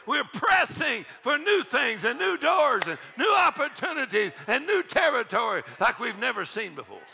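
rousing, rhythmic sermon delivery; impassioned pulpit exhortation; fervent preaching. Real, not acted. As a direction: build a rolling list to fire up the congregation. Preaches with rising fervor.

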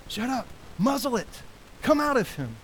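high, rising command to the demon; stern rebuke. Acted. Jesus rebuking the demon, rising stern command. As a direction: order the demon out with rising force.

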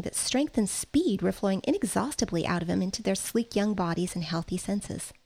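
calm read-aloud narration; story reading. A narrator's reading. Teacher reads novel aloud to class.

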